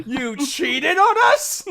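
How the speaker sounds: slow, hammed-up hurt accusation; mock betrayed. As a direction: drag it out like a jilted lover, playfully. Mock accusation of a jilted partner.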